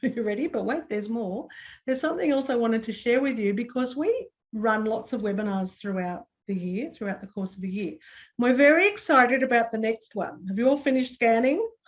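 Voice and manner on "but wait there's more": late-night shopping channel infomercial announcer voice. A webinar presenter, before sharing something else, in an infomercial announcer voice. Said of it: "I'm going to sound like an infomercial now".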